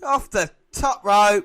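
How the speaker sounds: loud, high, drawn-out exclamation; slow, excited shout of a big move; astonished call. Real, not acted. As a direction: stretch it out in amazement. Calling a spectacular move.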